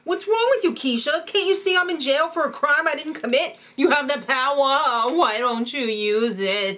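high, loud hammy outburst; mock frantic pleading, slowing at the end; Jessie. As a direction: overact a crazed demand. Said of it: "that Jesse's crazy".

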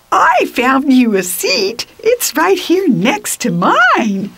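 high, bright eager offer; hopeful. A narrator's reading. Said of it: "He sounded so hopeful".

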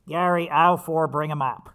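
loud store-manager call across the aisles. Retold or imitated. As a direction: call it out like a boss over the shop floor. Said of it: "the manager would always go".

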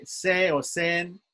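2 "se or sen" said very slowly, the sen held long; 3 stretch "se or sen" to show that it is long; 1 drawn-out syllable demo. Shown as a demonstration. 4 teacher corrects himself and slowly demonstrates "se or sen" as a long syllable. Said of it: "sen is long".

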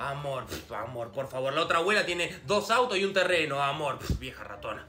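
low, contemptuous; scoffing. Acted. Grandson scoffing at grandma's love, low. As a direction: scoff with disdain.

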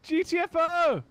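high loud slow yells; loud urging. Real, not acted. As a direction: bellow at teammates to get out. Urging teammates to flee.

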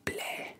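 spitting-out "bleh" in a whisper; whispered disgusted bleh. Acted. Bully spits out the rice ball, disgusted whispered bleh. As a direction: act out spitting food, whispered. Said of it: "Helmeppo spits it out".

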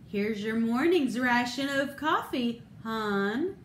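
gentle housewife offering coffee; gently. Retold or imitated.

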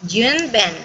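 AND reduced to "n" between You and Ben; teacher's model with A and D of AND silent; "You 'n' Ben", linked by a bare "n". Shown as a demonstration. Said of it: "decimos n".

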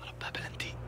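a hushed whisper. Real, not acted. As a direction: whisper it under your breath. Hushed about the penalty. (همس خافت)

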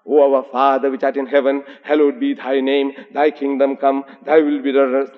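intoned Lord's Prayer on an even pitch; prayer recitation. Retold or imitated. Lecturer showing what the Arabic calligraphy says, intoned recitation. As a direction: recite it steadily, like a church prayer.

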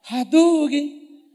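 grito agudo e bem arrastado; golpe de videogame. Pretend. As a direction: solte como golpe de lutador. Video game special move shout. (brincadeira de golpe de jogo, gritado devagar)

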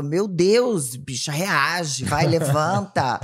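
loud, slow pleading push to get up; urging friend. Retold or imitated. Urging her calm friend to get moving, loud and slow. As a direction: rouse a sluggish friend, drawn out. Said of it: "eu falo".

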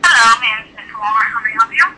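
brisk store manager on the phone. Acted. Same caller now plays manager.

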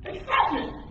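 high, falling burst of excitement; high-pitched excited demo; excited exclamation. Shown as a demonstration. Demonstrates what exclamation point emphasizes.

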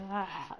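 high mock wail of crying; a brief, hammed-up bawl; imitated bawling. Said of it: "I was bawling out crying".

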